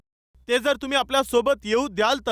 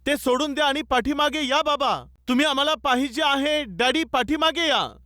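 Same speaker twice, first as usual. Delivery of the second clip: mild imitation of children's cries; lightly acted plea to daddy; children calling out; 3 semitones higher than usual. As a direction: call to father as his children would, only half-shouted. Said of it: "मुलं ओरडत होते".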